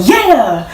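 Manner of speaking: "Yeah" with a clear "eh" vowel, falling; "yeah" spelled out. Shown as a demonstration. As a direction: make "Yeah" clearly a yes, not "y'all". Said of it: "you saying".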